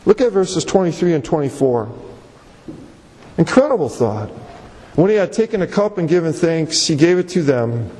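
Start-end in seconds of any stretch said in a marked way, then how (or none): 4.9-7.9 low-pitched, measured Bible reading; solemn low reading from scripture. Acted. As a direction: read the verse aloud, voice dropped low. Reads the Bible verses.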